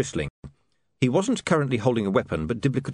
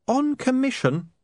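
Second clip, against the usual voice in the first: a sharp, much higher, slow snap; snapped; slower than usual. A narrator's reading. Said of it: "snapped Saccharissa".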